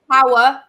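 power said in two syllables, pow-er. Shown as a demonstration. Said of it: "two syllables".

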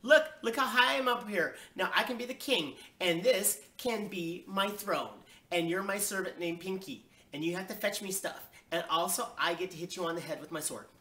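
put-on high, loud child easing down a little; bossy make-believe glee; excited showing off. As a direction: boast eagerly like a kid playing king. Child shows off atop fridge.

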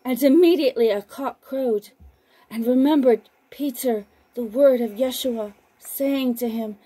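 measured, unhurried Bible reading; scripture reading. Acted. Broadcaster reading scripture to listeners, measured and solemn. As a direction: read the Gospel aloud, steady and solemn. Reads Gospel passage aloud on broadcast.

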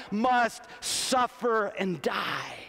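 drawn-out preaching shout, slow; slow preached shout. Acted. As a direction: stretch each word out and shout it. Preacher shouting climax phrase.

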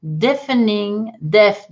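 "Deafening" said slowly, DEF-ning, then "deaf" alone; slow English demo. Shown as a demonstration. Teacher slowly models "Deafening" for French learners. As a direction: spell out "Deafening" slowly for the class. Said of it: "tout à fait, deafening".

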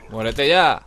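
yelled at the enemy; shouting. Real, not acted. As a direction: shout it out in the heat of the fight. Gamer yelling at an enemy.

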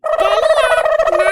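very slow loud drawn-out question; shocked question. Acted. Woman shocked at the threat of jail food, slow and loud. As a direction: stretch the word out in loud shock.

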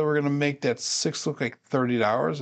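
talking through a yawn; words stretched by a yawn. Real, not acted. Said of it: "I'm sorry for yawning here".

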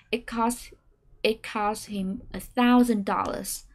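slow phrase-by-phrase read, rising on new words; staircase intonation. Shown as a demonstration. Teacher practises the sentence in chunks. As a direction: lift "Apple Store", "iPhone", "thousand". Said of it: "xuống giọng và lên giọng ở những thông tin mới".

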